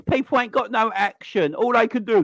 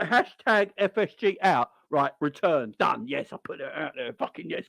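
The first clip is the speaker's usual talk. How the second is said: softer, lower smug fan voice; mock smug fan; 5 semitones lower, 4 dB quieter than usual. Fans after tweeting a hashtag, quietly smug. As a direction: gloat quietly over the tweet. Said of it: "this is what they think".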